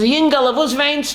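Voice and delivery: lightly voiced, imitating a rabbi addressing a boy; concerned elder. Baal Shem Tov asks a crying boy, lightly acted concern.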